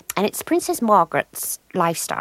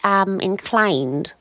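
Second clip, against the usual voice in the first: slow, drawn-out lightly royal voice; a hint of a plummy royal musing; 3 semitones higher, slower than usual. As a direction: muse grandly like a queen. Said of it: "The royal character that I do".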